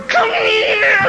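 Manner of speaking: high, yelled call across the field; shouting come here; team's shout. Retold or imitated. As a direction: call him over the way teammates holler. Team calling him over.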